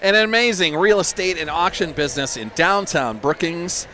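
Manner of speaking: hammed-up sponsor read, pitch lifting as it goes; Jackson Hagerfeld. Commentator reads the realty auction sponsor, impersonating playfully. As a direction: play up the ad as an impersonation. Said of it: "That was my Jackson Hagerfeld impersonation".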